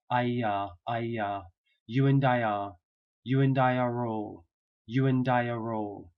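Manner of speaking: ordinary talk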